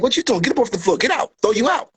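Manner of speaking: high, hammed-up bouncer throwing someone out; mock bouncer. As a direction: bark the eviction in fun.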